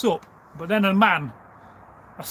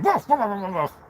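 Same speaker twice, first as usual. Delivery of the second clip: imitated fox bark; 2 semitones higher than usual. A narrator's reading. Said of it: "he barks at him".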